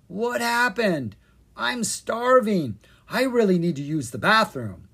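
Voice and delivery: lightly voiced waking sleepers; groggy voices. A narrator's reading. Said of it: "dozens of groggy voices".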